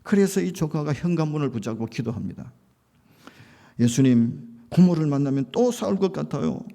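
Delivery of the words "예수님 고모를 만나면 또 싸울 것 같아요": earnest prayer. Retold or imitated. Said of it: "짧지만은 간절하게 기도하고".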